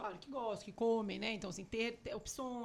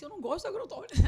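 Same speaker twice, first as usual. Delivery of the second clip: imitating daughter; 8 semitones higher, 10 dB louder, faster than usual. Child quoted refusing big apple.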